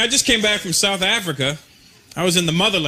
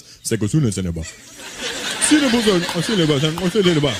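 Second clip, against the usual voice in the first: mock African language. Three African guys chatting in an elevator, mock African language. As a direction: imitate overheard African chatter in nonsense syllables. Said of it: "coming out of their mouth".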